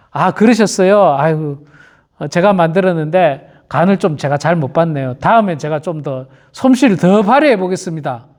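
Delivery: acted gentle, conciliatory reply; humble apology. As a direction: take the complaint meekly, like a gracious cook. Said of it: "이렇게 하는 것이 그리스도인이고". (겸손하게 사과하는 말투)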